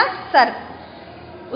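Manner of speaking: सर्प breathed very slowly without voice; drawn-out whispered word. Shown as a demonstration. Teacher to children, slowly whispering सर्प. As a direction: stretch out सर्प in a whisper, sounding each part. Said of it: "क्या बन गया?".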